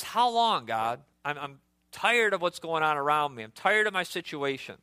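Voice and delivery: exasperated whine to God; mild mock exasperation; complaining prophet. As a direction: act out the frustrated prophet. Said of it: "He's crying like a child".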